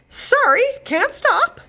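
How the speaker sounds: high, loud hurried reply; hurried brush-off. Acted. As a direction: wave her off in a rush. Godmother brushing off princess.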